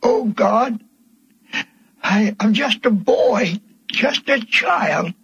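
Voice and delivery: put-on retelling a boyhood prayer with a catch of tears; a boy's crying plea, retold; tearful plea. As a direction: plead with God, voice near crying.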